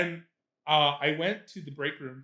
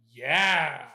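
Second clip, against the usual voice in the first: drawn-out sarcastic yeah; dry, sarcastic agreement; super sarcastic. Retold or imitated. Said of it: "Like, super sarcastic".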